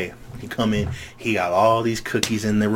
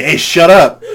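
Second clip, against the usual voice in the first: mild mock yell; 6 semitones higher, 9 dB louder, slower than usual. Retold telling teacher shut up.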